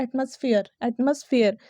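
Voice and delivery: एटमॉस्फेयर with a reduced middle "muss"; correct pronunciation. Shown as a demonstration. Teacher introducing the word to students, correct pronunciation. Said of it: "इसके लिए जो सही pronunciation".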